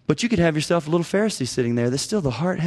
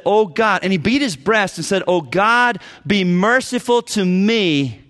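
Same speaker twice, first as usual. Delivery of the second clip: pleading for mercy; 4 semitones higher than usual. Retold or imitated. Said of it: "hung his head and would not lift his eyes up and said".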